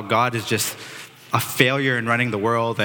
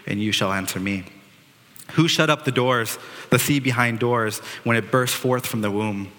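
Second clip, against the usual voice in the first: scripture reading. Acted. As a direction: read it out solemnly, like scripture in church. Reads God's speech from Job.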